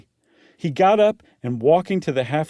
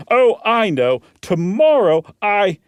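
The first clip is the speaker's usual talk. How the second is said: Meagle voice; 6 semitones higher, 5 dB louder than usual. Acted.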